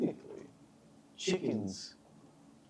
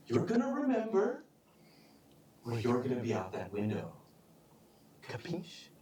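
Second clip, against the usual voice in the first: gangster threat ending in Capiche; mobster threat. Acted. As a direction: lean in like a mob boss.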